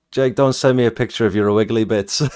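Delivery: light Irish accent impression; a hint of an Irish lilt. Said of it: "in his Irish accent".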